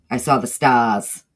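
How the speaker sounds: "stars" said "stahs" with the R dropped, a touch of a laugh; Northeastern accent. Shown as a demonstration. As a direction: Northeastern "stahs", no R at the end, slowed. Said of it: "they don't pronounce their R's".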